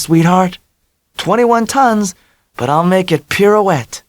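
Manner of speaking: high, bubbly confidence; ebullient Dell. A narrator's reading. Dell voiced, bragging.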